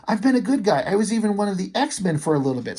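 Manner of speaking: panicked pleading. Acted. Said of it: "Pyro starts freaking out".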